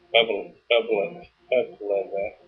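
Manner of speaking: tongue-tied, too tired to say it; tripping over the word; stumbling from tiredness. Real, not acted. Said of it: "I can't even talk, too tired".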